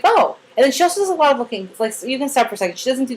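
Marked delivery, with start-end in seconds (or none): 0.0-0.4 high, loud little "Oh"; bright surprised oh; pleased surprise. Shown as a demonstration. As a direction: react with delighted surprise. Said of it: "You're like".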